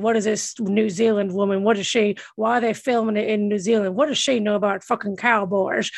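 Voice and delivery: a lightly voiced Sam Elliott scoffing at the film; gruff cowboy grumble. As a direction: grumble like an offended Western star. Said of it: "But he said".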